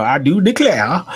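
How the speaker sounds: mock a cartoonish Southern accent through a laugh; Foghorn Leghorn. Host mocking an actor's accent, cartoonish Southern. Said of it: "it's more cartoonish Southern Froghorn Leghorn".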